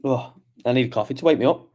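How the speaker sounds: sleepy apology just after a yawn. Real, not acted. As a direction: apologise through the tail of a yawn. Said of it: "yawning again".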